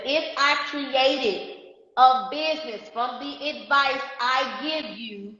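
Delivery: slow question with long pauses; deliberately slow. Shown as a demonstration. Coach giving viewers a question to ask friends, said slowly. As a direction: dictate it phrase by phrase. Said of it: "I'm gonna say it slow".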